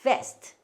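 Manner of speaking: vest with a buzzing lip-to-teeth V; clear V in vest. Shown as a demonstration. Teacher has learners repeat the word for waistcoat, clear V. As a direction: start vest on V, never B. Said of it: "우리 발음 정확하게 구분해서 하셔야".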